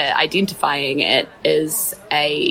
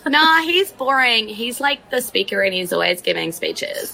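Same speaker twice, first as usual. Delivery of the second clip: put-on cheeky kid voice; 5 semitones higher than usual. Boy voiced dismissing the speaker.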